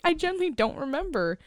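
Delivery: helpless giggle-whine; laugh-crying. Real, not acted. Host admitting she forgot the cave, laughing.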